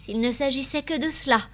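softened, faintly smiling reply. A narrator's reading. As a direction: answer with a touch of a smile. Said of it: "dit Constance en souriant".

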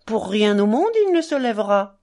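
triumphant whisper, then voiced; boy boasting his dog won't stir. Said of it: "d'un air triomphant".

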